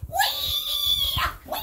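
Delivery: put-on squeaky toy baby cry; high baby wail. Playing the crying baby doll with a squeaky wail.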